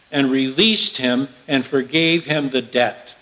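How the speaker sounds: measured, declaiming Bible reading; solemn sermon reading voice; scripture reading. Acted. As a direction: read the passage to the congregation with weight. Reads scripture passage aloud.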